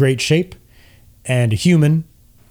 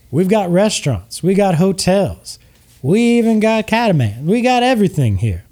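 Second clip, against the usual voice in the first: much higher, eager salesman voice; hyped ad pitch; 4 semitones higher than usual. Acted. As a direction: oversell every perk like a late-night ad.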